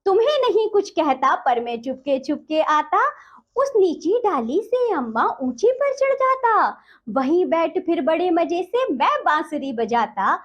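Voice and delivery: measured, sing-song verse reading; poem recitation. Acted. Teacher reciting the poem to children, lilting.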